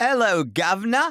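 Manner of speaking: very high pitch, bad put-on British accent. Joking about a British Invasion, bad British accent. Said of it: "my bad British accent".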